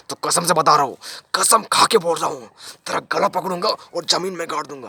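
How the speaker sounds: threatening oath. Acted. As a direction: swear revenge on the teacher. Father swears to bury the teacher.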